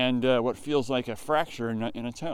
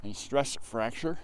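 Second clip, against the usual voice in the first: slower, carefully articulated "A stress fracture"; slow careful retake; 6 dB quieter, slower than usual. Real, not acted. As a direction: say "A stress fracture" slowly and deliberately to get it out clearly. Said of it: "my mouth is so cold I can't even speak".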